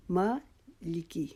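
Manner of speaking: مالکی with ما drawn out for one alif; long ما. Shown as a demonstration. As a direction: stretch the ما in مالکی, very slow. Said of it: "ما کو لمبا کرنا ہے ایک الف کے جتنا".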